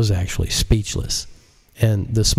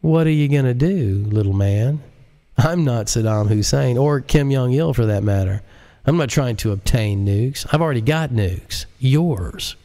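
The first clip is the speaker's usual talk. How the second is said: higher, smug and unhurried; calm JL; 6 semitones higher than usual. A narrator's reading. JL calmly taunts the president, smug. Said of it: "he calmly responded".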